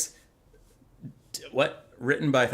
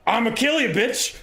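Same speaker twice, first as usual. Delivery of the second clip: louder, higher mock threat; demon threat; 8 semitones higher, 3 dB louder than usual. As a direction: bellow a lightly hammed demon's promise. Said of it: "Skarbrand comes out of this portal and is like".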